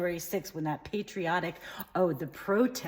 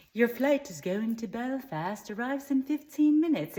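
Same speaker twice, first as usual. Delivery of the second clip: caricatured gay twang, lifting higher at the end; annoying gay twang; 4 semitones higher than usual. Acted. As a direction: put on an irritating camp airport-announcement voice. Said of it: "in that annoying gay twang".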